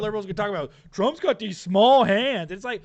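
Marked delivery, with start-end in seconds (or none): 0.9-2.5 mocking whine. Mocking liberals' talking point.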